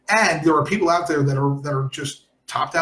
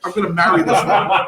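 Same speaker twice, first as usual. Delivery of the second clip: laughing; 5 dB louder than usual. Real, not acted. Laughing excitedly.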